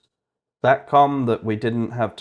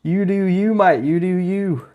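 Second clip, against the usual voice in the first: high, hammed-up Aussie accent; mock Australian accent; 9 semitones higher, 5 dB louder, slower than usual. Streamer teases the coding AI in a mock Aussie accent. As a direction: drawl it like a cheeky Aussie bloke. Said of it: "I can't do that accent anymore".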